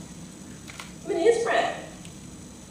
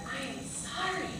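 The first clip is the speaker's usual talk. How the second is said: softly telling him no, dropping to a hush; hushed, apologetic but final; firm quiet refusal; 3 semitones lower, 8 dB quieter than usual. Retold or imitated. Lawyer to the would-be client, turning him away in a hush. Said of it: "I'm like".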